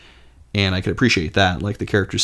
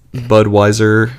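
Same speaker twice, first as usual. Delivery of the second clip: croaked Budweiser; 2 semitones higher, 9 dB louder, slower than usual. Pretend. Frog beer-ad croak.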